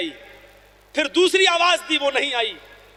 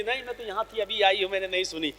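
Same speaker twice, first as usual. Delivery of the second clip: quick, much softer made-up excuse; 6 semitones lower, 8 dB quieter, much faster than usual. Retold or imitated. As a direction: toss off the lie softly and fast. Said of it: "وہ کہہ سکتی تھی". (دھیمی، تیز آواز میں بہانہ)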